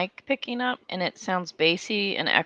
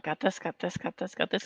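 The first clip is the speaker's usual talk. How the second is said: muttering; 9 dB quieter than usual. Retold or imitated. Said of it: "I'm like".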